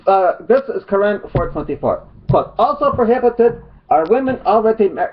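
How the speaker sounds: high, put-on Arab accent; generic mock Arab accent. Vlogger reading his opponent's Quran citation, mock Arab accent. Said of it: "generic mock Arab accent".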